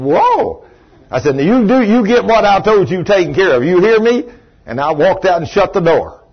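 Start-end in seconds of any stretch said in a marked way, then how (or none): 0.0-0.6 high-pitched startled exclamation; stunned reaction. Retold or imitated. Visitor backing off from the angry boss, stunned. 1.3-4.2 loud, high, bossy demand; angry order. Retold or imitated. Boss giving his employee a last order before leaving, angrily.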